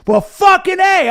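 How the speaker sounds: loud, high, slow awestruck; drawn out in awe; awed. Retold or imitated. Reacting to the soldiers, a loud awed exclamation. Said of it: "And I went".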